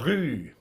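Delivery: French-style uvular r in "rue"; throaty r. Shown as a demonstration. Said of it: "the r sound is like, um, in French".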